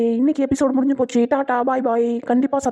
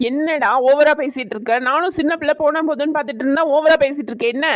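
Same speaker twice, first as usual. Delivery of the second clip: scolding; 2 semitones higher than usual. Acted. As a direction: drag it out, warning him. Mother scolds son.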